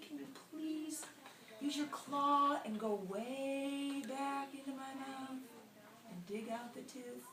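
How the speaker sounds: mildly whiny plea, words stretched out toward the end; pleading alligator. Acted. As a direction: beg for help with a sore tooth.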